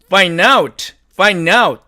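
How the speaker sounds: find out with d dropped, fain-aut; native reduction. Shown as a demonstration. Teacher models the native linking for students. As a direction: link find out without the d. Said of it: "이렇게 발음을 합니다".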